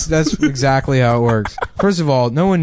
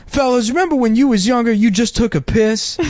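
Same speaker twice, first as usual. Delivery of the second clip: Steve Harvey impression; 8 semitones higher than usual. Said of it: "he has one special where he's talking about".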